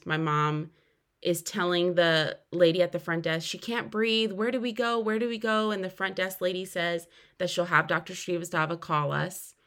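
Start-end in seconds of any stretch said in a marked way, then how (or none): 3.5-5.7 higher-pitched imitation of a worried mom; retold panicked plea. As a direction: act out mom urgently asking for help. Mom's panicked call, retold.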